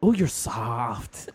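very slow, drawn-out mock Asian accent; slow Asian-accented marvelling; his Asian accent. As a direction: coo it in his Asian accent, stretching each word. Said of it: "he was like".

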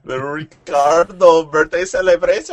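announcer voice. Pretend. Announcing a mock celebration.

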